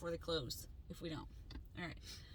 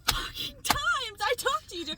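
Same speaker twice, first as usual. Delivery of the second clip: much higher, louder, slow furious shout; retold furious yell; 11 semitones higher, 13 dB louder, slower than usual. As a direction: let the rage explode at Joe. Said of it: "Um, I was so mad".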